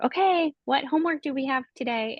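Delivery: imitating a helper's high, lilting greeting; singsong "okay", then easing down; upbeat mentor. Mentor greeting her, retold.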